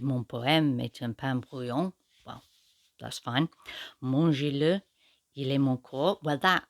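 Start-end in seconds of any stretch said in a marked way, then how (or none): 0.0-1.9 English speaker reading French lines aloud; a modest schoolgirl French accent, read as poetry. Acted. Reviewer reading the French original to viewers in a schoolgirl French accent. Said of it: "my French accent isn't that good". 4.0-6.2 English speaker reading French lines aloud; a modest schoolgirl French accent, read as poetry. Acted. Reviewer reading the French original to viewers in a schoolgirl French accent. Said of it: "my French accent isn't that good".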